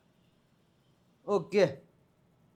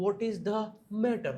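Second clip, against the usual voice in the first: slow teaching read; much slower than usual. Shown as a demonstration. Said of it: "તો વાત શું છે?".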